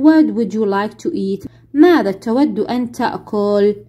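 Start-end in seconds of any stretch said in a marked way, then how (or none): 0.0-1.5 each English word spelled out slowly for the class; very slow model reading. Shown as a demonstration. Teacher playing flight attendant, very slow model question. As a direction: read it slowly so pupils can repeat. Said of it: "سؤال زايد".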